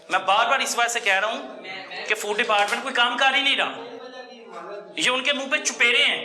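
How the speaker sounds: heated public condemnation; indignant outcry. Real, not acted. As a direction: denounce them with real outrage. Reporter denouncing food department.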